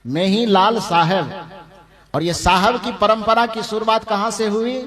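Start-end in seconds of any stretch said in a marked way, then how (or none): 0.0-1.3 slow, laughing मेही लाल साहेब; chuckling punchline; amused reveal. Shown as a demonstration. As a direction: deliver the name as a playful punchline. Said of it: "मेही बाबा का नाम क्या रखा?".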